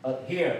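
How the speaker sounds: "adhere" stressed on the second syllable, D only a stop; held-back D, weight on "here" in "adhere"; unreleased D. Shown as a demonstration. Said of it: "我会停下一".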